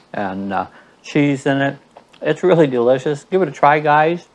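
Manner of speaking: talking while chewing; mouth full. Real, not acted. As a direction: speak through a mouthful of food. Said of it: "still got my mouth full".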